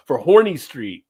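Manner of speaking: Horny Street with the Cajun horny; drawn-out horny. Shown as a demonstration. Reading the exit sign the local way, horny. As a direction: says "Horny" instead of "Horn", leaning on it. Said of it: "it's pronounced horny down there".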